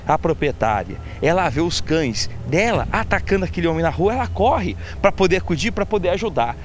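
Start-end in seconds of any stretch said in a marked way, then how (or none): none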